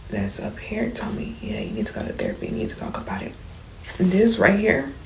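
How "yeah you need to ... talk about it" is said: low, soft quoted voice; quoted friend's advice. Retold or imitated.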